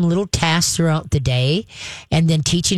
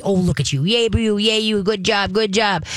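praising dog; 3 semitones higher than usual. Shown as a demonstration. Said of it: "pet him very nicely".

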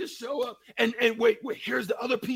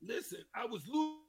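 choppy, breaking-up phone line; dropping out like a bad connection; buzzy glitchy call audio; 5 semitones lower, faster than usual. Real, not acted. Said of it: "We lost you there for a second".

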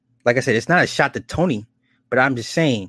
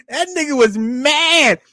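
laughing; 11 semitones higher, 3 dB louder than usual. Real, not acted. Still laughing about angry friend.

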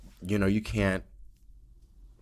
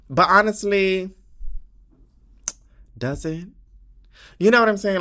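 high emphatic exclamation; 12 semitones higher, 8 dB louder than usual. Real, not acted. Exaggerated rhetorical emphasis.

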